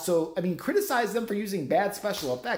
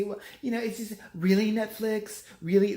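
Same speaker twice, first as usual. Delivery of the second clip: mock whiny complaint; 5 semitones higher than usual.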